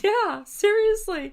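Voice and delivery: high, loud and slow; drawn out exclaim. Real, not acted. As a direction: stretch it out emphatically. Emphatic agreement.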